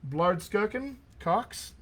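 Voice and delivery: slow, careful guess at "Blardskirken Cox"; tentative name attempt. Real, not acted. Coach guessing at a student's surname, "Blardskirken Cox" sounded out slowly and tentatively. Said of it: "I'm gonna butcher this".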